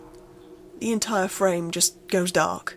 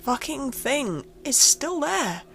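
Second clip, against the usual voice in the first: much higher and louder, frantic, building to near-shouting; panicked; 7 semitones higher, 3 dB louder than usual. Acted. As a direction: build from shaky disbelief to full panic. Realises it was there all along.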